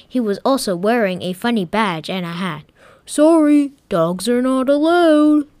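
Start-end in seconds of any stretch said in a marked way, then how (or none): 3.1-5.5 higher, louder stern guard; a guard blocking the door; higher voiced guard saying no. Guard stops them.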